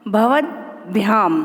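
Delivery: भवद्भ्याम slowly, split after भवद्; low, drawn-out भवद्भ्याम for pupils; pronunciation demo. Shown as a demonstration. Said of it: "मैं आप लोगों को सिखाती हूँ". (भवद्भ्याम धीरे, तोड़कर उच्चारण)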